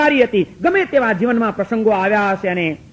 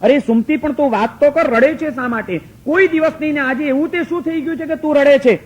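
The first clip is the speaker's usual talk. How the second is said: pleading husband; 5 semitones higher than usual. Acted. Husband presses crying wife.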